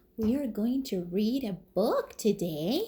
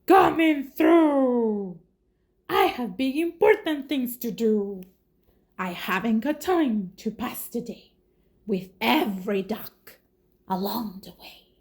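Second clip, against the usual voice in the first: bossy dump truck; 4 dB louder than usual. Acted. Reading to kids, the dump truck bossing its way through. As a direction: push past everyone, full of yourself.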